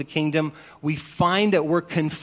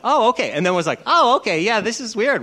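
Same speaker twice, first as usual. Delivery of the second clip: high, loud oh okay; awkward dawning recognition; amused mock surprise; surprised realization; 5 semitones higher, 4 dB louder than usual. Both realize who each other is.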